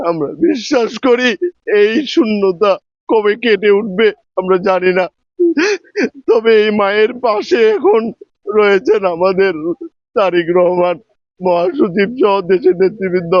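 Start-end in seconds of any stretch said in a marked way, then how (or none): 6.3-13.3 snotty crying. Real, not acted. Mourning the party's mother figure.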